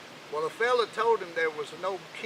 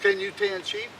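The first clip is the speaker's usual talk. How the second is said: much higher, piping the question; squeaky old king. Acted. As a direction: squeak it out like a cranky old man. King questions little Jack.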